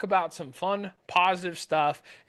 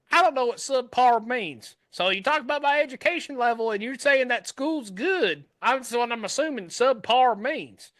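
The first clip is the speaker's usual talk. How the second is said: put-on country boy accent; 3 semitones higher than usual. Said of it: "good old country boy".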